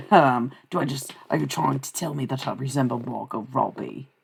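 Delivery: lightly put-on Australian, a bit British colonial; playfully faked Australian accent; mock Australian accent. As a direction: tease in a half-convincing Australian accent. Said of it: "it sounds more like British colonial".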